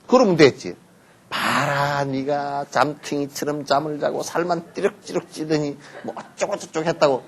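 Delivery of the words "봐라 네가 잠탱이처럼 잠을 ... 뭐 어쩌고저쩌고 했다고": nagging mother. Retold or imitated. Mother nagging lazy child.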